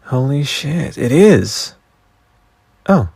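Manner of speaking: high, rising exclamation of disbelief; real astonishment at finding it; genuine surprise. Real, not acted. Host finding the archived page, surprised and high.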